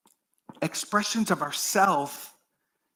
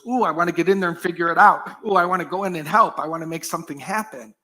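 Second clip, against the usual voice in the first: quick, louder, eager chatter; eager busy mind; 5 dB louder, faster than usual. Retold or imitated. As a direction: rush in like a mind that wants to fix it. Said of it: "the kind of mind that goes".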